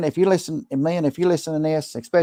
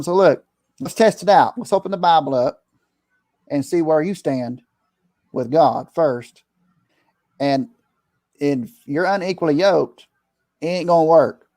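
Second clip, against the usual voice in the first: preacher mode. Retold or imitated. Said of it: "I go in preacher mode".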